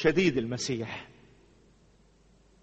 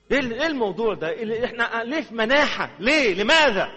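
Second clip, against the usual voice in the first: laughing mock dismay; 6 semitones higher, 5 dB louder than usual. Real, not acted. Preacher mocks a mourning crowd.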